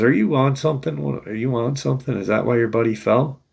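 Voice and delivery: retold disbelief, firing questions quickly; incredulous questioning. Park ranger doubting a kid's story, incredulous retold questioning. Ranger challenges the boy's odd claim.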